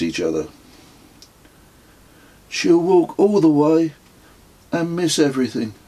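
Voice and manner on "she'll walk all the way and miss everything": higher, louder scornful remark; raised voice, scornful; scornful boy. Acted. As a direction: sneer at her with a boy's contempt. Kez scorns the woman.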